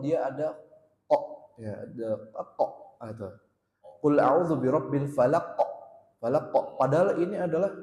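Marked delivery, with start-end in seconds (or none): 4.0-6.5 falaq with the q bounced hard; recitation with qalqalah. Shown as a demonstration. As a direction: recite falaq, letting the final q echo. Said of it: "qalqalah yang paling kuat".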